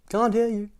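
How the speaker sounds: very high bellowed reply; bellowing. Acted. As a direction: bellow it back. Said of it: "bellowed the greengrocer".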